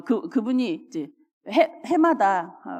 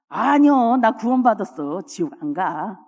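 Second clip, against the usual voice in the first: confident retort; 3 dB louder than usual. Acted. Acted retort of church elder.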